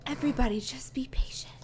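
soft unvoiced whisper. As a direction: whisper it patiently. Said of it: "I repeated softly".

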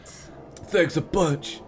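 slow dry sarcastic thanks. Acted. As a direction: drag it out sarcastically. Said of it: "Corey said sarcastically".

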